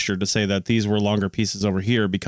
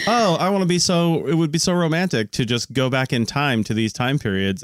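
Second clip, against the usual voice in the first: lightly mocked dreamy time-travel fan; playful imitation of a starry-eyed romantic; gushing romantic; 4 semitones higher than usual. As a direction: start high, gushing about the romance of the past. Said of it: "Anytime you're like".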